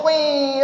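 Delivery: drawn-out mock cry "koyyy"; long whining pretend cry; imitated baby wail. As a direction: mimic a baby starting to wail. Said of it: "ಅಂತ ಮನ್ಸು ಮಾಡೋದು".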